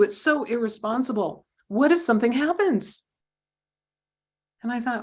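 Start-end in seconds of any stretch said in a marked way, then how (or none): 0.0-3.0 angry scolding. Retold or imitated. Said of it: "yelled at me and said".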